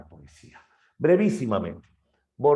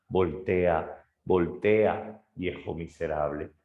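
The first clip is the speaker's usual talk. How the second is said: mild mock shout; 3 semitones lower, slower than usual. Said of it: "le grita".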